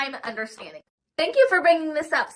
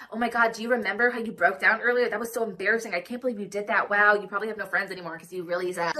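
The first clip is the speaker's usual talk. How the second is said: bashing inner voice; 4 semitones lower, faster than usual. Retold or imitated. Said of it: "one voice will just be, like, bashing you".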